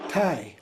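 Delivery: "tayata" begun with a tay glide; tay, ya, ta with gaps for "tayata"; variant pronunciation. Shown as a demonstration. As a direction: space out the syllables of "tayata". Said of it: "it's sometimes pronounced as".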